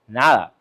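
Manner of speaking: nada said the Spanish way, NAH-dah. Shown as a demonstration. Using a Spanish word for nothing, Spanish nada. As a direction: drop in Spanish nada, stressed on the first syllable. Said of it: "as they say in Spanish".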